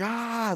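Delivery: high, restrained imitation of a scream; mock scream. Storyteller imitating the stranger's inaudible screaming, mock scream. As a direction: imitate a wordless scream without the volume. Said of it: "just screaming. Just like".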